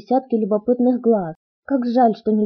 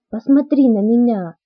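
louder, insistent demand; a demanding command, pushed out louder; 4 dB louder than usual. Acted. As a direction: demand that he look at her. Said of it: "потребовала я".

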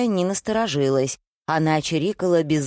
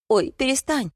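high-pitched, squealed objection; indignant protest; 9 semitones higher than usual. A narrator's reading. Wife defending her late father, indignant. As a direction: cut in high and offended. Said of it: "возмутилась Зоя".

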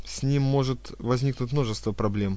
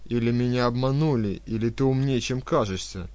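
smirking; 3 dB louder than usual. Acted. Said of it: "некромант усмехнулся".

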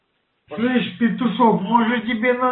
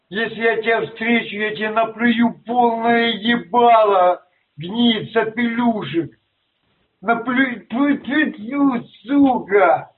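lisping. Real, not acted. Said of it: "А ты чё-то шепелявишь".

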